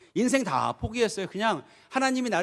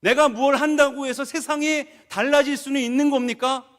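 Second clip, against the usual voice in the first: higher, louder protest to God; despairing protest; 5 semitones higher, 5 dB louder than usual. Acted. Prophet protesting to God in prayer, raised despairing plea. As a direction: plead your helplessness, voice raised.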